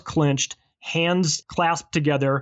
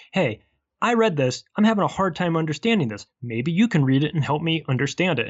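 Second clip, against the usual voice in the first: gentle asking; 3 semitones higher than usual. Retold or imitated. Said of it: "Maybe, like, you just say".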